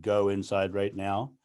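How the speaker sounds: "go inside right now" said low, slow and falling like an order; dropped command. Shown as a demonstration. Speaker isolates the commanding drop, low and slow. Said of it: "that drop".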